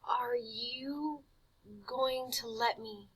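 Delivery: slow, hushed uncertain question; boy asking the vampire; timid whisper. Acted. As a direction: ask it in a frightened whisper.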